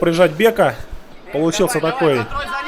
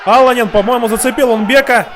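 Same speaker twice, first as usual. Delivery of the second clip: louder, rising play-by-play burst; excited commentary; 4 semitones higher, 4 dB louder than usual. Real, not acted. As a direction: call the strikes with rising excitement. Exchange of strikes, commentator excited.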